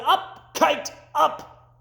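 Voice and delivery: high, loud call to the kite; shouting. Acted. Toad jumping in the meadow shouting at his kite, high and loud. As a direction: yell it up at the sky. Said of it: "He shouted".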